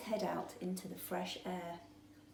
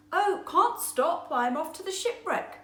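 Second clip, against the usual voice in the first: higher and louder, in a rush; another busy fish; 8 semitones higher, 7 dB louder than usual. A narrator's reading. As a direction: wave him off on the way out. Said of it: "said another".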